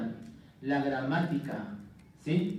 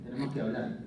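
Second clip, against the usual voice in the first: put-on ominous girlfriend; 6 semitones lower, 6 dB quieter, faster than usual. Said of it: "Muy, muy típica de, de las mujeres".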